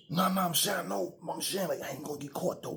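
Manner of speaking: lightly voiced cocky buddy; whiny friend. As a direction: play the guy brushing it off. Friend's excuses retold.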